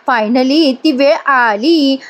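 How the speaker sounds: drawn-out, slow announcing; retold announcement, deliberately drawn out; mock announcement. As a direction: announce it slowly, stretching the words. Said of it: "Gautami मुद्दाम announce करते".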